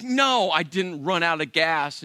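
firm mock protest with a long, leaning "No"; emphatic. Wife denying to husband that gas ran out, emphatic. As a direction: imitate an emphatic denial, drawn out.

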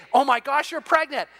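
imitating an excited friend; excited greeting. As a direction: gush over the news. Greeting a pregnant woman.

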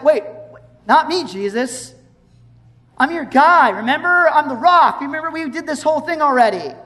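boastful Peter. Retold or imitated. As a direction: play Peter sure of himself, a touch hammed. Peter boasting, retold in sermon.

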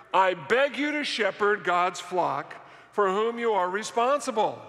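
reading aloud together. Real, not acted. Pastor leads the congregation through the verses, reading aloud together. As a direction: read it out deliberately for a group to follow. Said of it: "Let's read it loud and let's read it together".

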